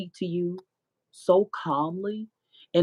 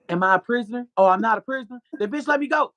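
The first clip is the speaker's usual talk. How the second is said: retold angry yelling; 7 semitones higher, 5 dB louder than usual. Retold demand to hospital staff.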